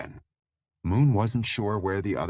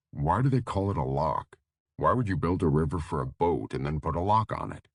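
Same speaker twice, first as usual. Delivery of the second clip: woozy. Acted. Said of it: "He sounded woozy and half-conscious".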